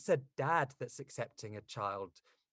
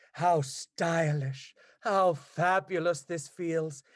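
slow, drawn-out, delighted crocodile reading voice; Cliff's voice; 3 semitones higher, 4 dB louder, much slower than usual. Acted. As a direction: savour every word like a vain dandy admiring his new heels. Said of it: "Give me, give me Cliff's voice".

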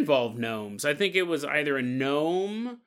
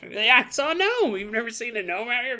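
much higher, eager voice; insistent granddaughter; 8 semitones higher than usual. Retold or imitated. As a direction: push it like a kid who is sure.

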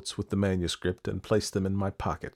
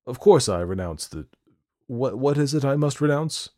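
kindly but loud and halting; indulgent, puzzled kindness; 7 semitones higher, 7 dB louder than usual. A narrator's reading. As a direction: humour them, stumbling over the words. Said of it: "said kindly".

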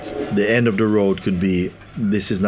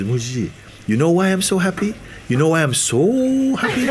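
eager question; 9 semitones higher than usual. Retold or imitated. Sadhu teasing the question.

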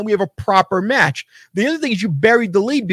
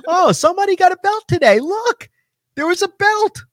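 sarcastic mock excitement; 11 semitones higher than usual. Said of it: "And you're like".

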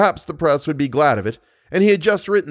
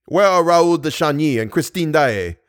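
demanding; 3 semitones higher than usual. Acted. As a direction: press him hard for an answer. Persian demands answer.

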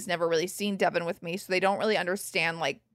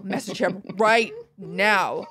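slow villain menace; slower than usual. Retold or imitated. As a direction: drag it out like a villain. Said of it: "the voice of a villain in some cartoon".

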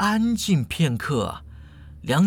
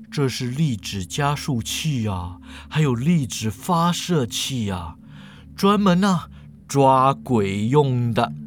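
low, drawn-out character voice; low-pitched, deliberate professor; unruffled old professor; 5 semitones lower than usual. Acted. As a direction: present your gadget at a leisurely pace.

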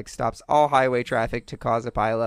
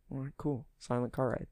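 deflated mutter; 12 dB quieter than usual. Retold or imitated. Mock driver giving up.

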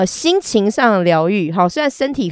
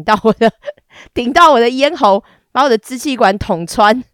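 边笑边说; 4 semitones higher, 4 dB louder than usual. Real, not acted. 自己边说边笑.

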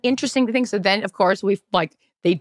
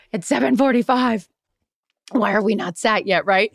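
dramatic complaint. Retold or imitated. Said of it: "I'm being dramatic".

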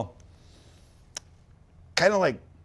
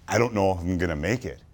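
breathing hard; out of breath from sprinting; audible breathing; 4 semitones lower than usual. Real, not acted. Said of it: "Can you hear me breathing hard right now?".

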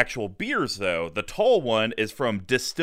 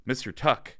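Kevin Costner impression; 4 semitones lower than usual. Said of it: "like Kevin Costner in The Untouchables".

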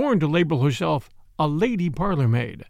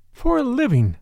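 dry; 7 semitones higher, 3 dB louder than usual. A narrator's reading. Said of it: "said Ursula dryly".

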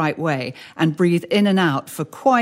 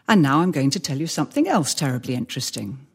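exaggerated pausing; 4 semitones lower than usual. Shown as a demonstration. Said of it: "I'm exaggerating slightly for effect".

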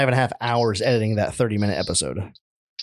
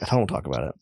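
mock evasive; 10 semitones lower, 5 dB quieter, faster than usual. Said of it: "I was like".

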